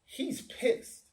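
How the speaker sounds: high unvoiced whisper; mock whisper. Friends whispering about the angry man, high whisper. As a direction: whisper it like gossip. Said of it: "as opposed to going".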